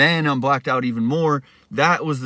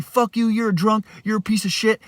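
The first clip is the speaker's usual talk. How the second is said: higher angry insult; yelling; 8 semitones higher than usual. Retold or imitated. Roommate calling him a drunk, angry yell. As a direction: hurl the insults. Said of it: "he's yelling at me".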